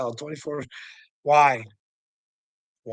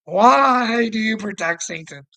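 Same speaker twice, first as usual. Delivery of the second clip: mock the viewer, half laughing, louder; louder laughing taunt; 7 semitones higher, 6 dB louder than usual. Real, not acted. Taunting the viewer who protects him, laughing and louder. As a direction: repeat the question higher and louder through a laugh.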